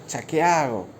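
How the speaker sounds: low, softly muttered self-questioning; Judas. Acted. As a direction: lightly act someone quietly unsure what to do. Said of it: "Judas se queda así y dice".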